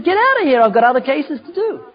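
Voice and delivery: lightly voiced judge shooing him out; impatient judge. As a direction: wave him off like a busy judge. Judge brushing the defendant off.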